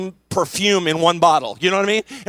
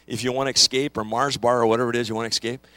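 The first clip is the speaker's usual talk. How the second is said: ad voice; 9 semitones lower, faster than usual. Retold or imitated. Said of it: "that Snickers bar commercial".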